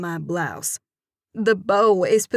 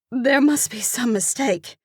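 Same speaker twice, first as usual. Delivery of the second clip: higher, louder panicked squeak; 5 semitones higher, 5 dB louder than usual. Acted. Narrator panicking about the pageant roster, squeaky. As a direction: squeak it out in alarm. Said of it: "I squeak".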